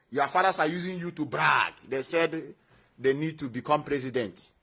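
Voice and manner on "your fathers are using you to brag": 1 shouted accusation. Real, not acted. Scolding IPOB viewers.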